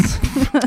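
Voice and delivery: short laugh. Real, not acted. Laughing at the joke.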